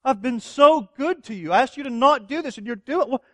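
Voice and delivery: a betrayed husband torn between rage and hurt; anger and hurt. Retold or imitated. Husband confronting his unfaithful wife, angry and hurt. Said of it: "somewhere in between deep anger and deep hurt".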